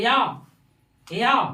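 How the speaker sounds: "या" stretched out loudly; extra-long vowel. Shown as a demonstration. Teacher demonstrating the longest vowel, drawn-out loud "या". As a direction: hold the vowel of "या" well past normal. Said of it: "ज्यादा समय लेता है।".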